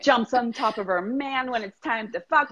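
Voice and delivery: rising, giddy rundown of her dream self; excited client gush. Retold or imitated. Client telling coach about her bolder self, giddy and rising. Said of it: "They're like".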